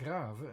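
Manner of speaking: grave as Dutch "GRAH-vuh"; Dutch pronunciation. Shown as a demonstration. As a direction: say grave in two beats, ending "-vuh". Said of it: "you come to a Dutch word".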